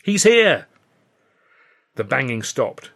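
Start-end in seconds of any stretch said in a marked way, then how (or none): 0.0-0.7 high, loud shouted announcement; urgent raised cry; cry going up. A narrator's reading. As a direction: call it out across a busy yard. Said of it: "the cry went up from all parts".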